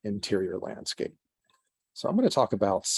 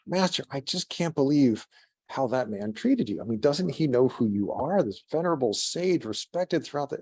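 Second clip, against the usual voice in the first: put-on high, earnest young voice; eager young apprentice; 5 semitones higher than usual. Apprentice complaining to the master at supper, high and earnest. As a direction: pitch it up like an upset young disciple. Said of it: "He goes".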